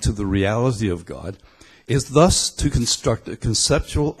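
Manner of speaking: put-on quoting in a Belfast accent; Pete Rollins. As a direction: read it out with a Belfast lilt. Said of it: "complicated more by the accent".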